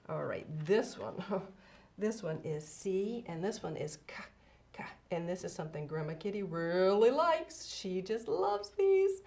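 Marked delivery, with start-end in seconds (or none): 4.1-4.8 hard "ka" sound repeated; sounding out words. Shown as a demonstration. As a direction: pop the "ka" like a hard c. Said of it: "I'll tell you the sound".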